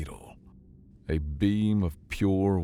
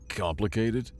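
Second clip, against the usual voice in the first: squeaked; 4 semitones higher than usual. Acted. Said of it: "Tob squeaked".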